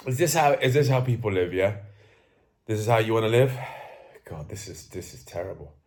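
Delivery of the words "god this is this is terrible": soft, low, deflated sigh of disgust; quiet despair. Real, not acted. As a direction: let it sink in, barely voiced. Despairs at his own lifestyle.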